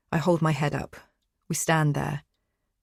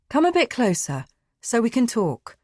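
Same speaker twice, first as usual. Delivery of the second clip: calmer; 7 semitones higher, 4 dB louder than usual. Acted. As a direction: ease off and coax her closer. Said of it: "He's calmer".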